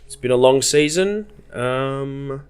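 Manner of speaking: loud, high, holding back tears; a tearful farewell speech pushed out loud; a choked-up thank-you to the boys. Retold or imitated. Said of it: "I'm on the verge of tears".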